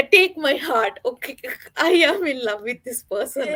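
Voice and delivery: high, loud, gushing with laughter; swooning fan. Retold or imitated. Fan retelling falling for Matt, high loud gush. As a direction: gush like you just fell in love. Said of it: "I was like".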